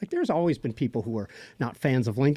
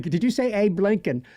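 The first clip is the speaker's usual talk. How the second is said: higher-pitched English quote voice; film character's English accent; 6 semitones higher than usual. Acted. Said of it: "it was a totally different accent".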